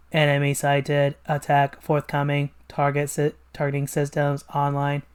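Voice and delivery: flat, monotone machine; robot voice. Acted. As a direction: speak like an obedient robot. Robot reports.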